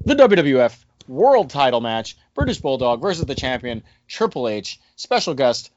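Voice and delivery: punchy announcer cadence, each item swooping down; bill the match in hammed-up announcer style; mock announcer. Host billing the title match for listeners, mock ring-announcer cadence. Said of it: "Don't know why I'm talking like this".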